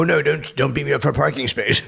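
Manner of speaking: joking plea not to be beaten up; mock pleading. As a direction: beg him not to hit you, hammed-up. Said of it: "I go".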